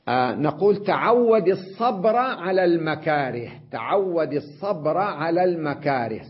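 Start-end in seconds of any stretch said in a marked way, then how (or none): 0.8-3.5 الصبر said as as-sabra, fatha on the ر; slow reading, الصبر with still ب and voiced final a; full vowel ending. Shown as a demonstration. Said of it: "صبر، فتحة على الراء". 3.7-6.2 الصبر said as as-sabra, fatha on the ر; slow reading, الصبر with still ب and voiced final a; full vowel ending. Shown as a demonstration. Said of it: "صبر، فتحة على الراء".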